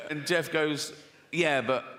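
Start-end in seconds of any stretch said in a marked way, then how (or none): 1.3-1.8 lightly voiced husband, pitched low; low, understated explaining to his wife; reasonable husband. Husband Jeff answering his upset wife, low matter-of-fact reply.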